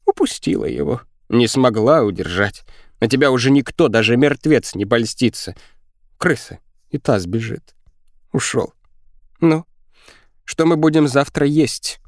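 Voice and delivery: high-pitched, frantic berating; raging girl. A narrator's reading. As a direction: scold someone bitterly in a high voice. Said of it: "бесилась девчонка".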